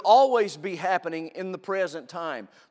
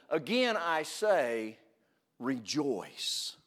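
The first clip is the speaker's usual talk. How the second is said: quiet repeat; 6 dB quieter, much slower than usual. Shown as a demonstration. Preacher repeating the command for those not listening, hushed and slow. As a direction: pull it down and let it sink in. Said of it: "let me say it again".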